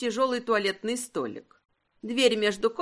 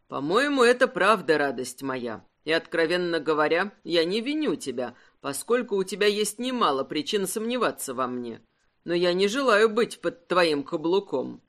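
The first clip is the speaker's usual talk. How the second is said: a hint of a grave husband, lower; lightly voiced husband, lower and serious; 5 semitones lower than usual. Husband reproaching wife for testing him, lightly lower and serious. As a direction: say it low and in earnest.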